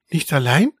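mild surprised echo, rising; a touch of astonishment; astonished. Acted. Cat echoes the mouse, mildly astonished. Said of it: "fragte Isabella erstaunt".

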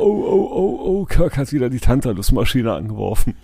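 high, hammed-up moaning; mock whining. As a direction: whimper like a dying man. Acts out his own moaning.

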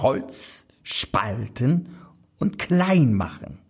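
listige Hexe, teils geflüstert; Hexenstimme. Acted. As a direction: alte Hexe, zischelnd und lauernd. Hexe verlangt Holzspalten. (verschlagene Hexe, flüsternd)

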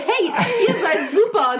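high, slow, laughing sponsor voice; mock sponsor voice. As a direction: play the gushing sponsor, laughing.

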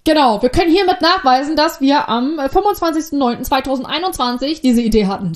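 loud, official-sounding claim; loud mock declaration. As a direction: proclaim it like a legal notice.

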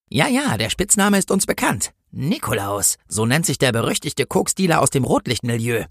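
lightly voiced know-it-all policewoman. Policewoman explains the dealer's nickname, knowing and suspicious. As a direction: start high, explain as if seeing through it.

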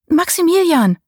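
hoch und etwas lauter, lockend gerufen; gurrend rufen. Acted. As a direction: den Namen verführerisch rufen. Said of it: "So außerordentlich gurrend und lüstern". (Susanne ruft ihren Liebhaber lockend und gurrend zurück)

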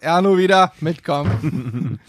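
mock stern guard; slow, drawn-out command; stern store detective. Store detective voiced in anecdote.

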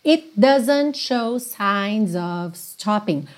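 "It doesn't" fused into one T-D sound, slow; linked it doesn't. Shown as a demonstration. Teacher showing the T-D link in the lyric. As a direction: glide "It doesn't" together. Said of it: "você junta num som só".

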